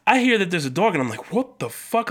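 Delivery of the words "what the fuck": retold disbelief. Recalling his reaction to the police dog, high incredulous voice. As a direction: replay your bafflement in a raised pitch. Retelling shock at seeing the dog.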